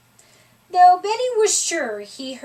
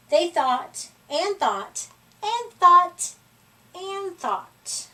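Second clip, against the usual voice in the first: drawn-out thinking; 6 semitones higher, slower than usual. A narrator's reading. Narrator drawing out the thinking.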